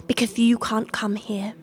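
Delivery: smug whispered aside; whispering. Acted. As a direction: whisper it teasingly.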